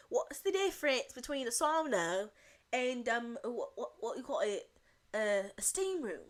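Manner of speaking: put-on foreign, possibly Dutch accent with reshaped vowels; imitated Dutch accent. Imitating a foreign woman asking about the sauna, vague Dutch accent. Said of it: "She might be Dutch".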